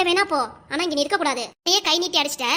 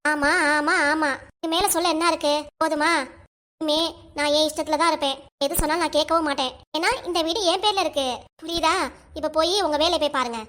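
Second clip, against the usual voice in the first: defiant scolding. Acted. Wife mocks and dismisses husband.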